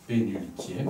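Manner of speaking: "Pénultième" with a slight break after "Pén"; small break in word. Shown as a demonstration. Teacher breaking down a term for students, small break in word. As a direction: split "Pénultième" lightly into pén and ultième. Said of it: "j'ai fait une petite coupure".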